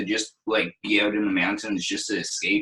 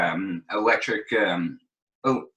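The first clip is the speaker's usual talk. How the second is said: choking on a chip. Real, not acted. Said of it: "sorry, I'm choking on a chip here".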